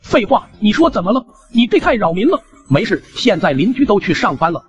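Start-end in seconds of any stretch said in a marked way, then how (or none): 0.0-2.4 put-on higher, exasperated old neighbour; irritated old man. Old neighbour complaining to the young man about the noise, higher and exasperated.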